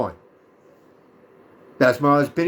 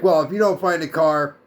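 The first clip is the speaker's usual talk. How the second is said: attitude; 4 semitones higher than usual. Retold or imitated. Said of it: "gives me a little bit more attitude".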